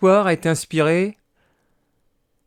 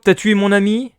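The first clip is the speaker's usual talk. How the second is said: mock threat; 3 semitones higher, 4 dB louder than usual. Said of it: "je dis à Robocop".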